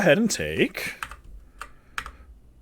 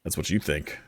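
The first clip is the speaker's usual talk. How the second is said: booming demon lord; 9 semitones lower, 9 dB quieter than usual. Acted. Boss retorts to player.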